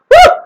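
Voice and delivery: short excited whoop. Real, not acted. Riled up over guns, a short whoop. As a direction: let out a quick "woo".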